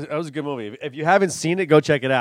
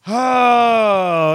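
surprised oh; 10 semitones higher, 10 dB louder than usual. Real, not acted. Sudden loud exclamation.

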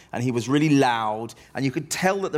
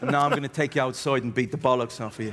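put-on quick Irish-accented threat; Irish heckler; faster than usual. Irish heckler threatening the young comic offstage, Irish accent. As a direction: threaten briskly in a lightly voiced Irish accent. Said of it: "this Irish guy".

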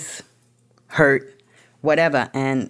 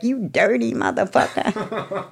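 slow disgusted retort; 6 semitones higher, slower than usual. Retold or imitated. Her reaction to amends.

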